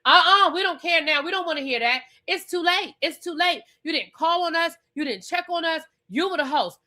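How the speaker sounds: lightly voiced scolding cast, high and curt; mocking the cast. Recapping the cast lecturing Angel as host, mildly mocking. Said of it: "Angel was like".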